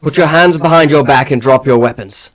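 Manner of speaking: commanding guard order; stern guard. Acted. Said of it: "he says".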